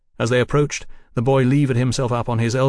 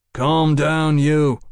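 firm order, slightly raised; 3 semitones higher, 3 dB louder, much slower than usual. Acted. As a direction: give a firm command to a rowdy boy. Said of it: "Fraser ordered".

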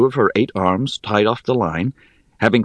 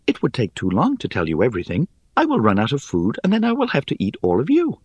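high, airy, scornful little voice; airy spider voice; 3 semitones higher, faster than usual. Acted. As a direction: chide them, light and dry.

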